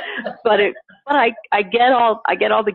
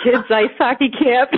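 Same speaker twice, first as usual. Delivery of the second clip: slower, after laughing, spelled out; deadpan reveal; 3 semitones higher than usual. Retold or imitated. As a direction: land it slowly as the punchline. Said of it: "And I'm like".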